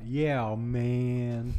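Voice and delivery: drawled stoner. Shown as a demonstration. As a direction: drawl out "Yeah, man" long and lazy. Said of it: "You gotta drawl it out".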